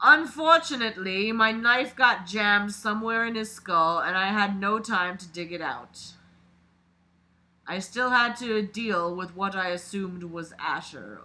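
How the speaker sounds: dramatic read-aloud of a creepy story. A narrator's reading. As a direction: narrate it like a confession being read out. Reads the killer's story aloud.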